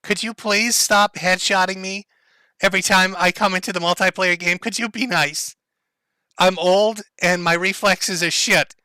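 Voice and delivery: lightly voiced old gamer, slow, deliberate pleading; mock-plead slowly like a hard-done-by old player. Old gamer begging the other players to stop headshotting him, mock pleading.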